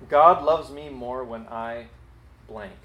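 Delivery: slow, spelled-out dictation; slow dictating voice. Shown as a demonstration. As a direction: read it slowly for people to write. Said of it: "write down these two sentences".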